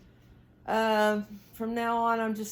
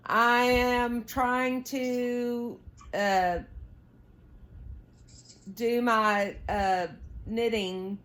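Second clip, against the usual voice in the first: slow, drawn-out words to the husband; a hint of playful exasperation at being interrupted; exasperated drawl; 2 semitones higher, much slower than usual. Real, not acted. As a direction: stretch it out, mock put-upon. Interrupted by husband while knitting.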